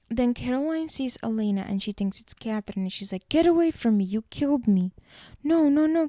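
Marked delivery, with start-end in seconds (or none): 3.3-4.9 acted accusation. Caroline mistaking Elena for her killer, acted accusing outburst. Retold Caroline repels supposed Catherine. 5.4-6.1 high, loud string of protests; urgent denial. Retold or imitated. Elena denying she is the killer, acted urgent protest.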